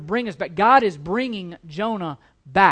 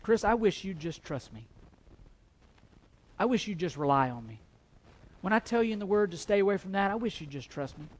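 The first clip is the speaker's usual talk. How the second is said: tender voice of God; 6 dB quieter than usual. Acted. God speaking to Chris, soft and tender. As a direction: gently plead as God, quietly. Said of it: "it's almost like God is saying".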